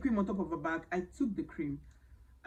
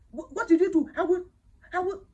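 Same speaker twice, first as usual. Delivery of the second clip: raised, higher mock scolding of a mother looking for a cane; 10 semitones higher, 7 dB louder than usual. A mother reaching for the cane, scolding her child in a loud, raised voice. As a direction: play the furious mum after a naughty child.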